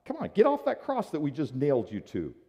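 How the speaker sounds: high, loud jeering taunt; direct mockery. Soldiers taunt Jesus on the cross, loud and mocking. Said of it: "they were even more direct".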